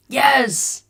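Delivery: loud high cry of yes; excited yes. Real, not acted. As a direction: shout it out, thrilled. Chat names the right emoji.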